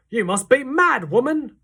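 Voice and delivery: high, loud angry outburst; furious cry. A narrator's reading. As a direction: hurl it at the old woman. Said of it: "cried Mister Jenkins".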